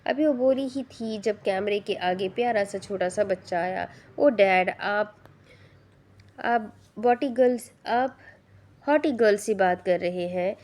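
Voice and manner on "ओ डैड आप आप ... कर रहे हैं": put-on a child's happy, eager chatter; a small boy thrilled to see her on screen; excited child. A narrator's reading. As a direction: kid calling out to the screen, delighted. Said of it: "खुश होकर बोला".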